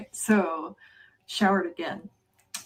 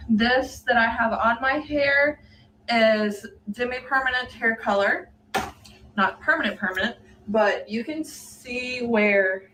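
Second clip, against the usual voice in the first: talking with retainers in; slightly lisped retainer speech; wearing a retainer. Real, not acted. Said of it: "Yes, I sound funny. I have my retainers in".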